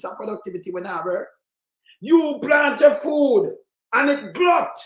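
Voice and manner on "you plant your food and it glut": slow, loud, higher rant; loud slow outrage over wasted crops; exasperated shout. Real, not acted. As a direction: bang the point out slowly. Ranting about farmers' losses.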